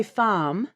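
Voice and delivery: FARM with a lengthened ah, still no R; elongated non-rhotic R. Shown as a demonstration. Showing colleagues a non-rhotic farm, vowel elongated. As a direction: lean into the vowel of farm, R unsounded. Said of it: "I can lean into the R a little bit".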